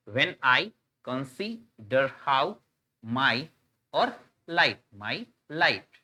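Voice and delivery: "when I consider how my light" very slow, in separate beats; syllable by syllable. Shown as a demonstration. Teacher dividing the line into meters, syllable-by-syllable reading. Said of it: "एक syllable, एक सबसे छोटी ध्वनि".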